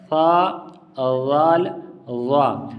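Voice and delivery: وا as a thick, rounded th sound; tongue-tip articulation. Shown as a demonstration. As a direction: draw out each th letter separately. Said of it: "زبان باہر نکلے گی تو اس طرح ادا".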